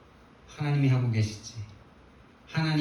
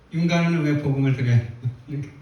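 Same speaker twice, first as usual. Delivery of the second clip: louder title read; 4 dB louder, faster than usual. Shown as a demonstration. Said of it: "title repeated with change".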